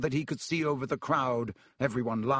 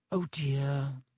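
sad. Acted. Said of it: "said Hermione sadly".

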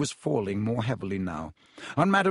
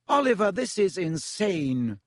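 higher, slow heated protest; angry; 6 semitones higher than usual. Acted. Alicia pleading with Wood, angry. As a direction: lean hard on the outrage. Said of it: "said Alicia Spinnet angrily".

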